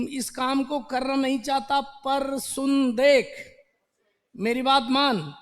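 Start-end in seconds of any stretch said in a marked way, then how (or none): 1.8-5.3 coaxing persuader. Acted. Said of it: "चल, चलो बताओ".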